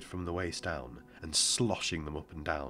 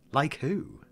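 put-on small, higher child voice; boy's voice; 10 semitones higher, 5 dB louder than usual. A narrator's reading. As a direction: voice the boy, light and young.

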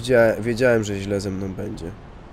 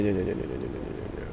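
repeated nos sinking softer until breathless whisper; fading to a whisper; 10 semitones lower, 10 dB quieter, faster than usual. Real, not acted. Player sinking into despair, nos fading to a whisper. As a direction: let the denial die away into a whisper.

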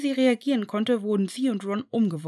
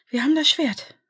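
triumphant; 7 semitones higher, 5 dB louder than usual. A narrator's reading. Triumphant Hermine, high and loud.

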